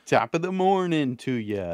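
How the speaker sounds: chirpy fake Irish lilt, leaning in; mock Irish accent. Host greets co-host in a hammed-up fake Irish accent. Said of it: "That's my, uh, English accent right there".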